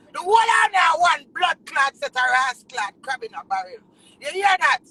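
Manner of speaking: loud crying outburst; tearful shout. Real, not acted. Artist shouting at jealous rivals, crying loud. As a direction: hurl it through tears.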